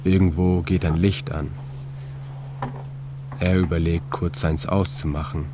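ordinary delivery

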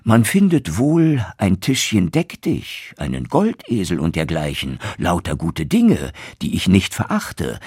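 a lightly voiced proud young craftsman; boastful young turner. Young turner boasting to the innkeeper about his sack, lightly voiced and proud. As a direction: brag about the treasure in the sack.

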